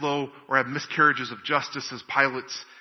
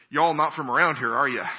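folksy Oklahoma "y'all" accent, retold; 4 dB louder than usual. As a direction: mimic a local Oklahoma accent, lightly. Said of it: "it was obvious from her accent".

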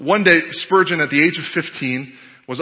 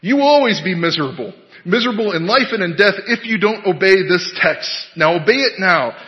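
lay preacher; 4 semitones higher, 3 dB louder than usual. Acted. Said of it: "the preacher went on".

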